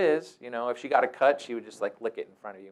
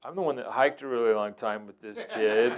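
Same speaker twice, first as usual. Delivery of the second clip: laughing sarcasm. Retold or imitated. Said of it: "the sarcastic staff is over there going".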